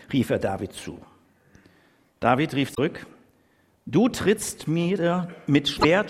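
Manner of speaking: measured, solemn Bible reading voice; scripture reading. A narrator's reading. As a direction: read the story out to the congregation. Bibeltext vorgelesen in Predigt. (feierliche Bibellesung)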